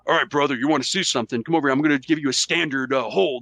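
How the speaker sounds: lightly voiced wrestler, a bit quick; a hint of a pumped-up pro wrestler explaining a hold; mild, quick Hulk Hogan impression. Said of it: "my wrestler voice".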